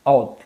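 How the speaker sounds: औद with ज़बर on the आइन, short and clear; pronunciation demo. Shown as a demonstration. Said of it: "आइन के ऊपर ज़बर". (आइन पर ज़बर के साथ औद का उच्चारण)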